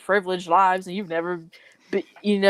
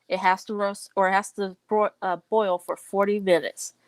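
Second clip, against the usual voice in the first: spiral into nervous panic; 3 semitones higher than usual. Retold or imitated. Nervous Megumi retold, rising panic.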